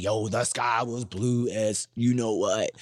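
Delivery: hyped-up, drawn-out storytelling; animated retelling. Shown as a demonstration. Storyteller hyping a plain fact for grandmother, animated. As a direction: stretch it out with playful hype.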